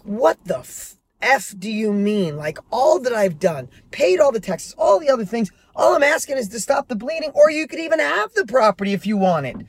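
a touch of heated disbelief, rising as it goes; retold angry reply. Imagined reply to the ungrateful co-owner, mild mock anger. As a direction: replay the furious text you almost sent, half-hearted. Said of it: "and I was pissed".

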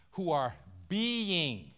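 "who are being" drawn out very slowly; stress on being. Shown as a demonstration. Preacher draws out "who are being" so the congregation notices the word. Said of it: "I want you to notice that word".

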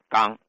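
刚 as "gang" standing for jiang; southern dialect pronunciation. Shown as a demonstration. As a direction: demonstrate 刚 with a hard g, no glide. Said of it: "南方方言都把江读".

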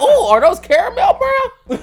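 high, slow, laughing flirt; mock flirty. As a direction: drawl it out like a teasing flirt. Mock flirting over her eyes.

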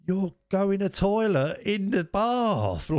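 very high, slow mock outraged wife. Wife finding him in the bath, very high and slow mock outrage. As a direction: squeak it out like a shocked wife. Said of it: "She's like".

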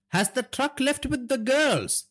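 put-on high, slow older crime boss's voice; domineering father. A narrator's reading. Father asks son about the truck, domineering. Naresh questions his son.

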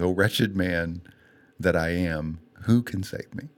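slow, heartfelt, holding back tears; real emotion while quoting scripture; close to tears. Real, not acted. Speaker quoting Paul's plea for rescue, close to tears. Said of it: "I'm gonna cry talking about it".

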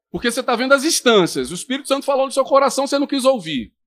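ordinary delivery

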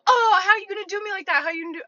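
high, loud, whining imitation; mock wounded protest. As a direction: wail it as the hurt suitor, hammed-up. Mimics the man's hurt protest.

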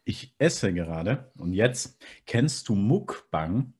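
slow, talking through a mouthful; chewing while talking. Real, not acted. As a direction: speak around a bite of food. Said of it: "was isst du gerade?".

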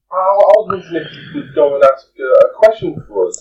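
high, bright NPC woman voice; woman's voice. Acted. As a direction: pitch way up for the lady. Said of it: "do a woman's accent".

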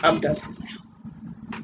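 whispered sign-off. Real, not acted. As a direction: let it all out in a spent whisper. Signing off the rant.

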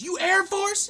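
high, loud mock challenge; retold shouted question. Sergeant questioning an airman's branch, imitated shout. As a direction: demand it at a yell.

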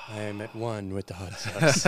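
hammed-up zen calm, laughing; mock meditation voice. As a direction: play a fake guru, amused. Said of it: "quick meditation on this".

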